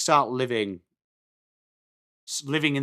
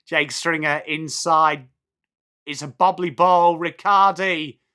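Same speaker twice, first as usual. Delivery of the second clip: live play-by-play; 3 semitones higher, 4 dB louder than usual. Real, not acted. Streamer calling Stringer inside for viewers, live commentary. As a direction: call the play, stretching the player names.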